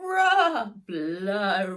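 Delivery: loud high honking bagpipe blasts; very loud, high wailing bagpipe noise; bagpipe blare. Acted. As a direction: blare like broken pipes. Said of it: "like a rickety car horn".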